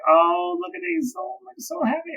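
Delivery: very high, cooing squeal; gushing excitement. Retold or imitated. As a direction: coo over him with delighted pride. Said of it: "I was so excited for Trick".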